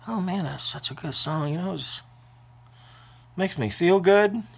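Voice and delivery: real tearful voice, high and soft; choked up, voice rising as tears come; crying. Real, not acted. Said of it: "I do cry".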